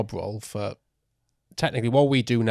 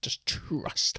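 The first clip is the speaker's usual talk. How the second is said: hushed whisper; 4 dB quieter than usual. Acted. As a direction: breathe it like a secret. Teasing echo of his motto.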